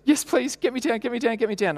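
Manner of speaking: imitating a frightened girl begging; pleading child. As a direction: beg to be lifted down. Relieved scared child.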